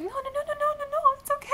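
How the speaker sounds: high-pitched string of soothing no's; hurried reassurance. Retold or imitated. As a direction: coo reassurance at a nervous child. Reassuring a shaken young fan.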